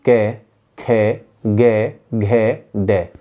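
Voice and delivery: कै, खे, गे, घे, डे slowly, each syllable separated; throat-sound demonstration. Shown as a demonstration. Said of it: "हाथ लगाइए यहाँ पर".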